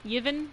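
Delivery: "Yevon" tried with an opening y sound, questioning; unsure pronunciation. Shown as a demonstration. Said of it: "don't really know how to pronounce it".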